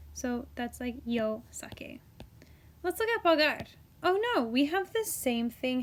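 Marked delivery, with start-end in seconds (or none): 0.1-2.0 slow whispered example. Real, not acted. Teacher whispers the yo form to the class.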